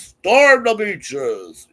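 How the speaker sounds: drawn-out, high, loud rallying call; battle cry. Retold or imitated. Reading a viewer's chat line as a battle cry. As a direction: bellow it like a charge order.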